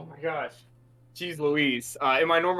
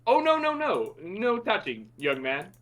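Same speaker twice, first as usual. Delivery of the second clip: playful mock scolding; 3 semitones higher than usual. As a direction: play at scolding a grabby youngster. Player's character coyly refuses a grabbing hand.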